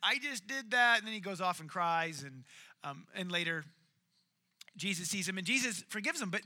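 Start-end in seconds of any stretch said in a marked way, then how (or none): 0.0-1.0 high, loud "oh crud" as it dawns on him; dismayed outburst. Retold or imitated. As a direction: Peter catching his own failure, cry it out. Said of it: "and he's like".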